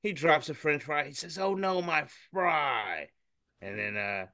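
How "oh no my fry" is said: mock dismay. Comic man drops his fry.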